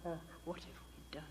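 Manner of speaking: soft, lightly voiced ho ho of shame; a hint of ashamed crowd moaning; ashamed men lamenting. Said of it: "they do this".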